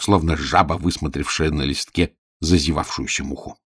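usual speaking voice

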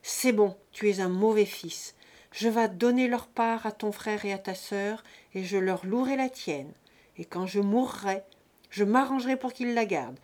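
put-on loud, commanding fury from an old peasant; booming, indignant father laying down the law; old father's outburst. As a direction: thunder out the disowning with old authority. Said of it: "un dernier éclat de l'antique autorité".

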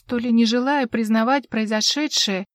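ordinary talk, nothing marked

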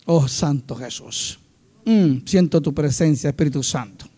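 low, soft, slow devotion; hushed prayer. Real, not acted. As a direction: murmur it reverently to the Holy Spirit. Turns aside to pray.

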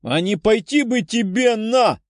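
slow, high-pitched cursing; cursing outburst. A narrator's reading. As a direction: tell them off with slow, rising defiance. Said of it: "раздалась брань".

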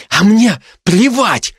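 loud, slow defiant yell; shouting. A narrator's reading. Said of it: "выкрикнул Лева".

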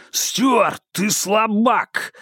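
high taunting yell from afar; taunting call. Acted. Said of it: "донёсся голос шерифа из темноты".

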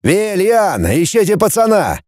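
high, sharp order to a henchman; a boss giving orders; commanding. Acted. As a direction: bark it as a command. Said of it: "скомандовал".

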